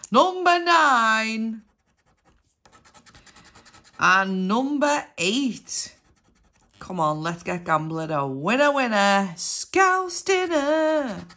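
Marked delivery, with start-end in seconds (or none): 0.1-6.0 bingo caller. Acted. Drawn-out bingo number calls. 9.4-11.3 slow, high sing-song bingo call; bingo caller. Acted. Rhyming bingo call, drawn out.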